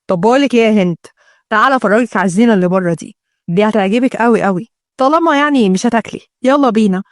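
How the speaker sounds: lightly voiced man, a little low; coaxing fiancé. Fiancé inviting his bride to see decorations, coaxing. Ahmed coaxes Hend outside.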